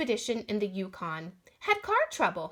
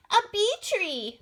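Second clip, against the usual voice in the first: puffing; 9 semitones higher, 4 dB louder than usual. Acted. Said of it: "Mary Ellen puffed".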